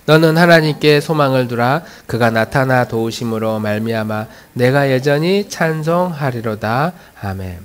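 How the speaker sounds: steady, measured congregational reading; scripture reading. Real, not acted. Pastor leading the congregation in reading a psalm together, measured recitation. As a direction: read the psalm evenly, line by line.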